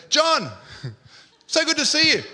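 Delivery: high, hammed-up hello with a laugh; gushing greeting. Churchgoer about to shake hands, gushing greeting. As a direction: call out to a friend in mock delight.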